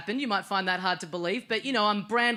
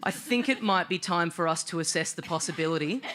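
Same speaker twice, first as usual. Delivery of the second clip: calm inner voice; 4 semitones lower than usual. Retold or imitated. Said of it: "this voice goes".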